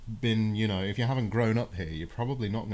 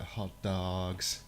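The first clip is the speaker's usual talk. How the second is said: attempted American accent; 3 semitones lower, 6 dB quieter than usual. Shown as a demonstration. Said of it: "I gotta get into American mode".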